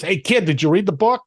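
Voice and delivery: a hint of an Italian mentor pitching a tip; Italian guy. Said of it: "he's an Italian guy".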